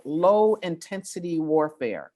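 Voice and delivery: deliberately slow, each word weighted; really slow. Real, not acted. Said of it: "I like to say that really slowly".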